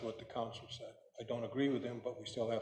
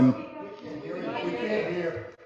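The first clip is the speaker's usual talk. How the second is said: loud; 6 semitones higher, 9 dB louder, much slower than usual. Real, not acted. Audience member can't hear speaker.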